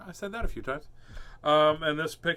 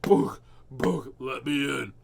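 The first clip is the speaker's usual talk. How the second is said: cat thumping to get in, building to a loud demand; imitated cat, ending in a loud cry; pushy cat; 9 dB louder, slower than usual. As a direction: act out a cat butting the door. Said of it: "and the cat's like".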